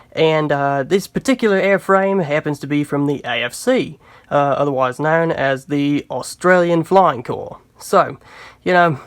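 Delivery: put-on fading Australian accent, lightly held; a hint of a jokey Australian accent; corny Australian accent. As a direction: let the Aussie accent trail off. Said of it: "gonna ditch that accent now".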